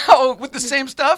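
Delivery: a real burst of laughter, asked in disbelief; laughing. Real, not acted. Host laughs at the story.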